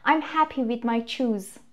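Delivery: slow, earnest retold mistake; deadly serious learner's error. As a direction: say CHOOSE slowly with a long 'oo' and z ending, in all seriousness. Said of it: "خیلی، خیلی جدی".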